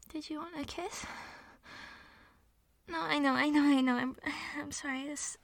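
shaky, weepy apologies, on the edge of tears; tearful apologizing. Acted. Embarrassed pet apologizing to her partner, tearful. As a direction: plead through tears, ashamed.

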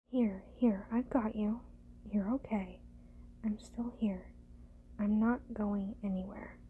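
ordinary talk, nothing marked

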